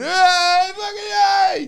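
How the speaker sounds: high, loud mock cheer; imitated drunken-crowd whoop; background pub revellers. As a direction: yell like a rowdy crowd behind the caller. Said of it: "everyone in the background going".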